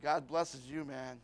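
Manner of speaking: a sly tempter slowing down to lure him in; old man temptation. Acted. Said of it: "He's gonna say".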